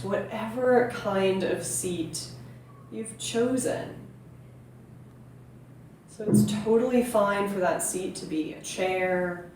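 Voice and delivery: calm meditation teacher with long, unhurried pauses; guided meditation. Real, not acted. Yoga teacher inviting viewers to breathe into the belly, calm guiding voice. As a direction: gently guide listeners into stillness and breath.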